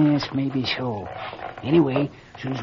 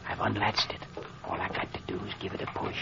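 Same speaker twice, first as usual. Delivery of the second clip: whispered, much softer and lower; whispering; 6 semitones lower, 9 dB quieter than usual. Acted. Mayor whispering to the doctor at the study door. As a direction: keep it to a breath by the door.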